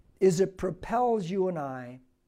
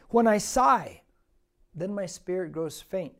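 forceful scripture reading; 4 dB louder than usual. Acted. Preacher reading Psalm seventy-seven aloud to the church, loud and declaiming. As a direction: declaim it to the congregation.

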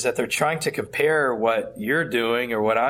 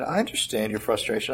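mildly calm, understated delivery; calm reply; 2 semitones lower, 3 dB quieter than usual. Retold or imitated. Pastor answering a frustrated, angry colleague, calmly. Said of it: "very calmly".

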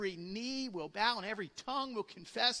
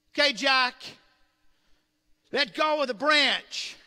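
voice of God; 5 semitones higher, 9 dB louder than usual. Retold or imitated. God instructs Jack.

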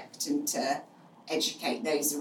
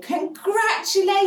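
shrieked much higher and louder; screamed congratulations; 7 dB louder than usual. Retold or imitated. Guest mishears and shrieks congratulations to the mother, high and loud. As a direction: retell a guest's delighted shriek. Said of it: "So they screamed".

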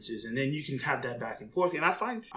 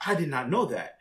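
realizing surprise; 4 semitones higher, 5 dB louder, slower than usual. Retold or imitated. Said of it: "he started to be like".

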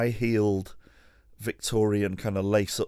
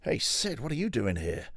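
much higher, hammed-up call of surprise; mock surprised greeting; 7 semitones higher than usual. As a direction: fake shock at finding him there. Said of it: "So it was like".

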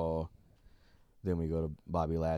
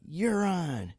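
mock accepting challenge; 10 semitones higher than usual. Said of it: "And Mandy was like".

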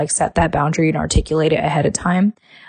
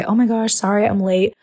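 over-apologetic gushing; 3 semitones higher, faster than usual. Retold or imitated. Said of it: "when you apologize to someone".

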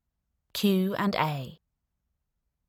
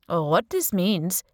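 put-on Indian accent. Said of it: "he said in a strong Indian accent".

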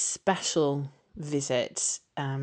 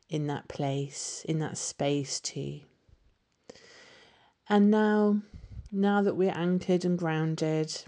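guided meditation. Acted.

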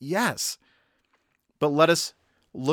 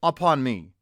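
higher, slow calling plea, mildly acted; crying out; 5 semitones higher, slower than usual. Blind Bartimaeus calling to Jesus as he begs, crying out. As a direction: call out each phrase, drawn out. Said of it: "he began to cry out".

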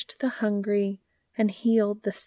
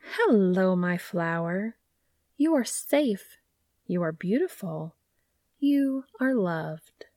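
tender. Acted. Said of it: "The gardener's voice drifted over the dandelion".

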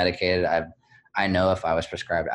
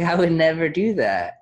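retold refusal; 9 semitones higher, 5 dB louder than usual. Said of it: "I was like".

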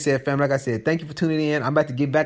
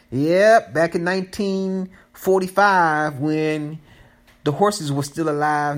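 put-on slow, higher joking old-man voice; mock old-timer; 4 semitones higher, slower than usual. Teasing listeners about how long ago he coded, mock old-timer. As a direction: play a creaky old-timer for a laugh. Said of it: "Nah, I'm playing with you".

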